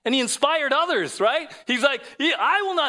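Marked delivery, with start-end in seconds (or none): 2.2-2.9 high, loud, cocky declaration; full of confidence. Acted. Preacher mimics Peter inspiring the others, full of confidence. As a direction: blurt it out with bold confidence. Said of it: "that man was full of confidence".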